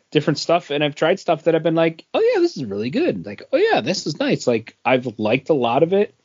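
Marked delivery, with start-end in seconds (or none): 2.1-3.3 high, quick delighted gush; mock thrill at a good beer; excited. Acted quote of enjoying beer. 3.5-4.5 high, quick delighted gush; mock thrill at a good beer; excited. Acted quote of enjoying beer.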